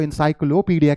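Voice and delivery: encyclopedia as "in-sy-klo-PEE-dia"; common mispronunciation. Shown as a demonstration. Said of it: "बहुत सारे इसको".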